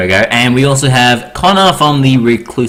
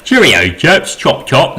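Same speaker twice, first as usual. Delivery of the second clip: mock English accent, jumping higher on "chaps"; generic English accent; 3 semitones higher, slower than usual. Host mimicking English guests in a generic English accent. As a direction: put on a stereotypical English accent. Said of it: "like, generic English accent".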